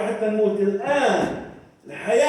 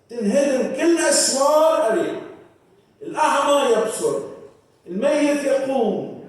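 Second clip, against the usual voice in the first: raised, driving preacher's cadence; full-force preaching; 2 semitones higher than usual. Acted. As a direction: build the promises like a rally cry. (وعظ حماسي بصوت مرتفع ومندفع)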